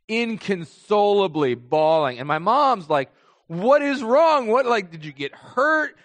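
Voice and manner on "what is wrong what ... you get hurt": high, alarmed mother voice; worried mom. Retold or imitated. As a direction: play the panicked mom checking on her son. Mom worried, checking on crying son.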